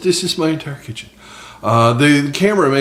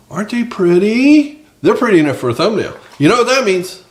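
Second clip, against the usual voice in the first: used car salesman voice; 8 semitones higher than usual. Acted. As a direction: push the sale, stretch out pretty. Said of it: "used car salesman voice".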